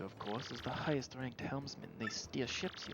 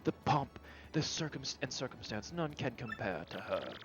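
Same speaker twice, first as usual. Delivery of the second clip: lightly voiced grandiose ship owner, dramatic; pompous Flavio. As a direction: swoon over the ship like a vain nobleman. Voicing Flavio character.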